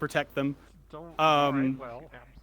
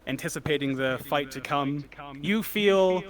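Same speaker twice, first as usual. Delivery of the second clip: slow, measured scene setting; game master narration; slower than usual. Acted. Game master introduces sea creatures, narrating slowly. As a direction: unfold it slowly, phrase by phrase.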